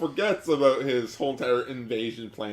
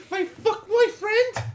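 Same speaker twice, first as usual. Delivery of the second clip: much higher, giggly cartoon voice; Kenta's silly voice. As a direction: squeak it out with giggles. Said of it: "I gave him this voice".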